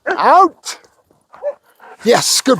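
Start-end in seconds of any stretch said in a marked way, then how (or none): 0.1-0.8 high, punchy one-word command; dog command. Real, not acted. Trainer commanding his dog to let go, high punchy command. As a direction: pitch the command sharply up.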